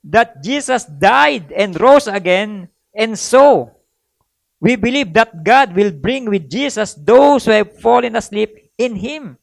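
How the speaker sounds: slow, weighty Bible reading; measured pulpit reading of scripture; solemn scripture reading. Acted. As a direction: read the verse like it's holy. Reads scripture aloud.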